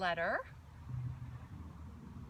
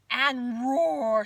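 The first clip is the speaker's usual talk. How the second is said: lion roar, much louder; 10 dB louder than usual. Shown as a demonstration. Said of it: "Take a big breath in".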